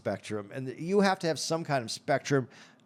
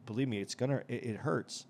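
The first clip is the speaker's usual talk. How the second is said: no emotion; 4 dB quieter than usual. Retold or imitated. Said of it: "he says it with no emotion".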